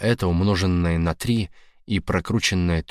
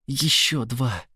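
excited cheer; 5 semitones higher, slower than usual. Acted. Girlfriend cheering shooter.

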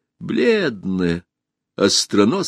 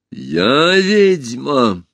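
higher, long-drawn swoop of outrage; indignant echo; 5 semitones higher, 4 dB louder, much slower than usual. A narrator's reading. Empress called a witch, indignant retort. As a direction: throw the word back, stretched and offended.

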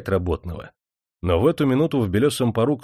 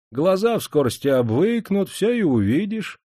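ingratiating, higher coaxing voice; fawning reassurance; 9 semitones higher than usual. A narrator's reading. Cook leads the master inside, fawning. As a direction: keep sweet-talking the master along. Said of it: "льстиво позвал".

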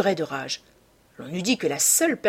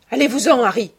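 higher-pitched dismissive cry; 5 semitones higher, 8 dB louder, faster than usual. A narrator's reading. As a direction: send Harry away in a raised, pleading pitch. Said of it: "cria l'enfant". (cri pour congédier)

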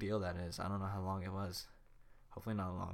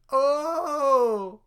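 awed gasp; 14 dB louder than usual. Acted. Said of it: "supposed to be in awe".

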